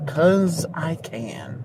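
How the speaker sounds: drawn-out villain murmur; slow dramatic hush. Acted. Repeated slow menacing echo.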